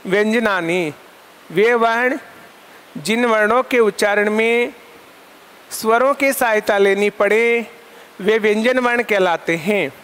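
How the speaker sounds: measured dictation with long pauses between phrases. Shown as a demonstration. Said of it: "साथियों, परिभाषा लिखिए आप".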